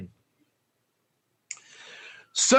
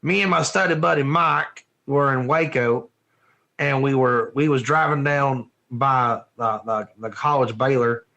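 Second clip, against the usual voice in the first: Texas accent; 6 semitones lower than usual. Shown as a demonstration. Teacher telling a study buddy story, in a Texas accent. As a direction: tell it low, in a Texas accent. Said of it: "I'm gonna use my Texas accent".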